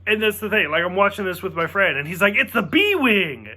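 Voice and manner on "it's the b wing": slow eager cry of It's the B-Wing; excited exclaim. Retold or imitated. Imitating his friend spotting the ship, an excited cry. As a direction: announce it like a thrilled fan.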